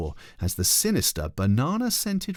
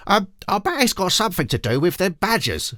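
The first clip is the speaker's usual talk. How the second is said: put-on high little girl's voice, eager; a confident kid guessing; girl sure the badgers did it, high; Ketchup Face voice; 11 semitones higher, 4 dB louder than usual. A narrator's reading.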